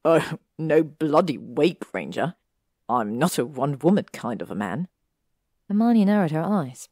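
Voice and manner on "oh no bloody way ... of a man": musing. Acted. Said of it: "Draco mused".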